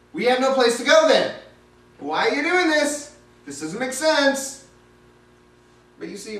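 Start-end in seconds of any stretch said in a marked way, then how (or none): 0.1-4.7 exasperated protest. Pretend. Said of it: "I'd be thinking".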